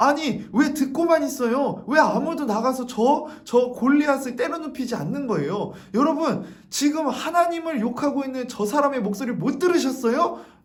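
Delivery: high, loud, furious outraged outcry.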